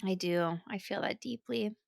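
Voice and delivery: low, hoarse voice with a cold; a phlegmy, hoarse voice. Real, not acted. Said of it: "my deep, sexy singing voice is coming forth".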